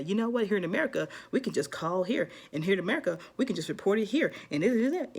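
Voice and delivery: lightly acted frustrated complaint; mildly frustrated. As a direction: imitate someone mildly fed up. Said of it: "Don't get frustrated and say".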